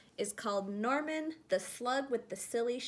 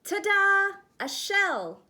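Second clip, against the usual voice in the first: much higher, louder triumphant reveal; proud ta-da; 9 semitones higher, 7 dB louder, slower than usual. Acted. Norman unveiling his shell, triumphant ta-da. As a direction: show it off with a flourish.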